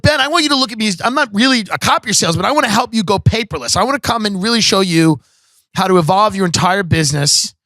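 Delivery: lightly hammed-up sales spiel; sales pitch. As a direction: pitch it hard to a prospect. Acts out own sales pitch.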